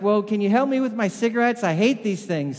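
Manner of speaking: high, loud pleading; loud exasperated request; agitated plea. Retold or imitated. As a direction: beg for help, fed up. Paul asks help with cigarettes.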